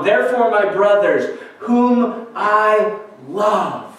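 drawn-out, lingering scripture reading; slow, heartfelt reading of Paul's words; slow tender reading. Acted. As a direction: linger over each phrase like a loving letter. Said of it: "Do you hear his heart of tender affection".

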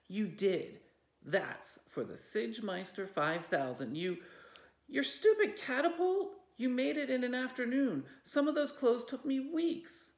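high, loud heated yell; furious sister shouting; angry shouting. Acted. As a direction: shout her down in fury.

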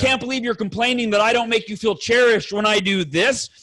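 mildly exasperated re-enacted complaint; upset, defensive. Husband arguing back at his wife, upset. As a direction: pile up the evidence in your own defense. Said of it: "and I get upset".

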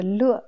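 "le" in Mandarin fourth tone, falling. Shown as a demonstration. Teacher naming the reading that means joyful, fourth tone. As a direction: let the pitch fall on "le". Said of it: "quatrième ton".

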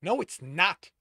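loud, high frustrated retort; exasperated. A narrator's reading. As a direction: contradict in exasperation.

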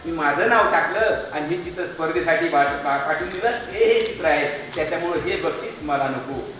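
a touch of crying; tearful confession. Acted. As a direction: confess it, choking up. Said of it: "Minal चक्क रडायला लागली".

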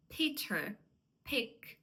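"Peter, pick" with a puff after each P; breathy P starting "Peter" and "pick"; aspirated P. Shown as a demonstration. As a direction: release air on the P of "Peter" and "pick". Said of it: "з придихом".

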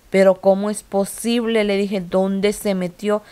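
emphatic, disbelieving questions; incredulidad relatada. Retold or imitated. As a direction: retell your disbelief, stretching the last question. No puede creer que apareciera ahí. (preguntas incrédulas y enfáticas)

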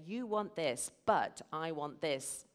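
slow, insistent, digging in on BUT; setting your want against theirs; pushy either-or demand; confrontational. Shown as a demonstration. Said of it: "Immediately you're pushed apart".

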